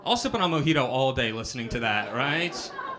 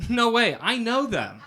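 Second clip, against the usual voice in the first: mock excited; 8 semitones higher, 4 dB louder than usual. Fake recognition in prank.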